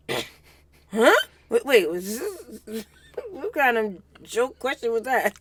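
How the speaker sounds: mock bafflement, stumbling over the question; mock confusion. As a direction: imitate him baffled, slow and halting. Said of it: "You saw him like".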